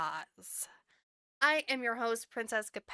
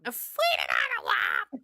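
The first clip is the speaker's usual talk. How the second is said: shouting; 11 semitones higher, 7 dB louder than usual. Real, not acted. Excited joking outburst.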